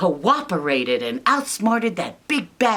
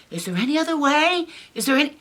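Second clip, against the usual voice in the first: high pig voice; 9 semitones higher, much faster than usual. Acted. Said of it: "Paul's like".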